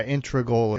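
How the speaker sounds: "integral" said as IN-tri-gul; common mispronunciation. Shown as a demonstration. Citing a common slip, "integral" as IN-tri-gul. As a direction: move the R of "integral" right after the T. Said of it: "is a common one".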